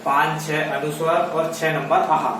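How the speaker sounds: slow, drawn-out dictation; slow motion. Shown as a demonstration. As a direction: say each dot number slowly. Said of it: "slow motion में बोलकर बताता हूँ".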